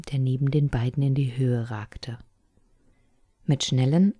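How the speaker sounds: plain reading voice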